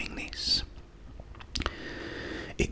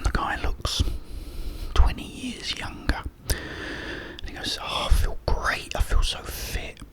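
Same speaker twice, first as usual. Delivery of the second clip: whisper. Real, not acted. Telling viewers a joke, in a whisper. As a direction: tell the joke in a hushed ASMR whisper.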